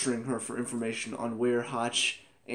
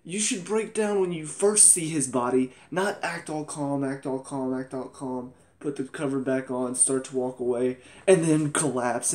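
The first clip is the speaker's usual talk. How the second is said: exasperated rant; 2 semitones higher, 4 dB louder than usual. Retold or imitated. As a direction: vent frustration at the screen. Ranting at the show.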